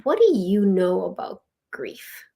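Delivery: slow, mildly challenging question; stern challenge. Retold or imitated. Older woman challenges the young-looking ritual leader, mildly stern. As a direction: imitate a sceptical woman, leaning on YOU. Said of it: "she said it in that tone".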